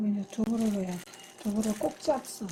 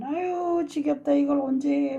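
higher, sighing mock complaint of a bored cook; mock weary grumble; 5 semitones higher, slower than usual. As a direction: imitate someone sick of kneading dough. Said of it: "막 이렇게 하는지 말고".

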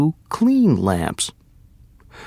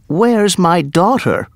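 higher, mildly raised cry of demand; 6 semitones higher, 4 dB louder than usual. A narrator's reading. King confronting Aladdin over his daughter, mildly crying out. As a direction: demand it as an alarmed king would, understated. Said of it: "cried the king".

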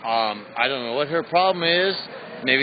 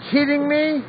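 much higher, squeaky pitch of outrage; outraged disbelief; 11 semitones higher than usual. Real, not acted. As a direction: shoot the pitch up in angry disbelief. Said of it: "I'm sorry, I'm mad".

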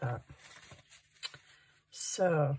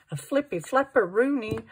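silly singsong; 6 semitones higher, 7 dB louder than usual. Acted. Playful crafting commentary, silly word.

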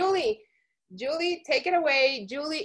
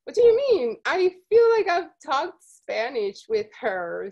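shocked; 2 semitones higher, 5 dB louder than usual. Retold or imitated. Host retelling her shock at the news. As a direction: blurt it out in disbelief. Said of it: "I'm like".

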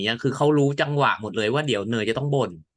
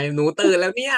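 mock shout from bed; 5 semitones higher than usual. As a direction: lightly call out like she did from bed upstairs. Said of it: "นางบอกแล้วไง".

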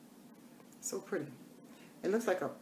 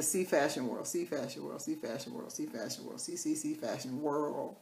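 playful repetition; 2 semitones lower, 5 dB quieter than usual. Real, not acted. Vlogger plugging the channel name to viewers, playful fading echo.

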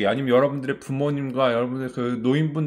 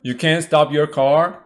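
calm operator; 5 dB louder, much slower than usual. Retold or imitated. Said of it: "되게 침착하게 하시죠".

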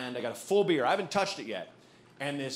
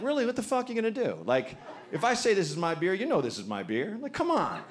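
defiant mock taunt; 4 semitones higher, faster than usual. Woman's defiant stare voiced.

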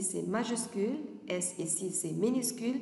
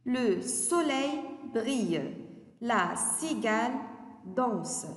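put-on slow, sing-song reading of a children's poem; teacher reading a rhyme aloud to second graders, slow and lilting; poem recitation; slower than usual. Shown as a demonstration. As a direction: recite the poem for young pupils, drawing it out. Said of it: "Je vais lire le poème".

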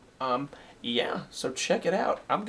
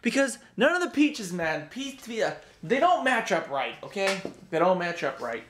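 frustrated; 5 semitones higher than usual. Real, not acted. Annoyed at product.

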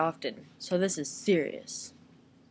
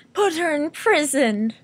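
higher, louder hammed-up demand; mock outrage; 6 semitones higher, 6 dB louder than usual. Playing outraged at the dog, loud mock demand. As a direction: demand justice like a cartoon judge.

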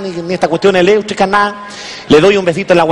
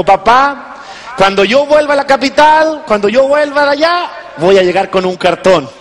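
a hint of an excited daughter, higher; lightly voiced daughter; 4 semitones higher than usual. A daughter promises her father a diploma, lightly voiced and higher.

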